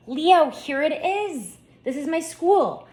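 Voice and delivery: slow, high and loud proud announcement; proud excitement. Acted. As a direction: present your school like a treasure. Lucy proudly shows her school.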